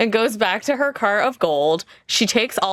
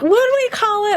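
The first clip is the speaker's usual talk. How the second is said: whisper; 12 semitones higher, 4 dB louder than usual. Acted. Kiki whispers back.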